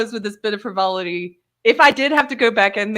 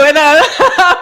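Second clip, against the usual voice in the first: laughing through the words; 9 semitones higher, 10 dB louder than usual. Real, not acted. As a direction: laugh while telling the story. Laughing while retelling.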